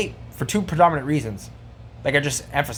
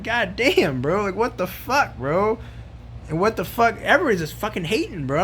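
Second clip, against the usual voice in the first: higher-pitched, fed-up venting; exasperated outburst; 5 semitones higher than usual. Retold or imitated. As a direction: throw your hands up at the haters. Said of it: "I'm like".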